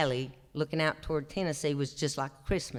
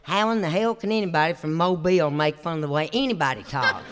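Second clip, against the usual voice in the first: laughing; 2 semitones higher, 8 dB louder than usual. Real, not acted. Laughing at Mobile accent joke.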